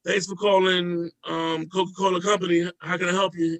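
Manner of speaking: customer service greeting. Retold or imitated. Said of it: "dumbass questions like".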